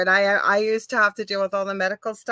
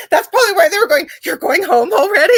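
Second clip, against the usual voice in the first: laughing while quoting; 8 semitones higher, 4 dB louder than usual. Real, not acted. Laughing at the nurses' remark.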